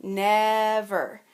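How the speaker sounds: Never said in two beats; syllables clapped out. Shown as a demonstration. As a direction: sound out never for the class. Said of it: "Is that long or is that short".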